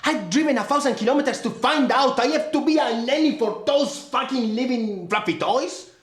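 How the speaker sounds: animated, swinging pitch, mildly irate; exasperated complaint. Acted. Brother complaining he drove far to babysit, exasperated. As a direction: protest with open annoyance. Brother quarrels with his sister.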